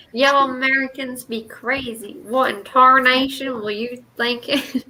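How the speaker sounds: mock American redneck accent, amused; playful redneck impression with a laugh. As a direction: put on a Southern redneck twang. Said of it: "I love that redneck accent".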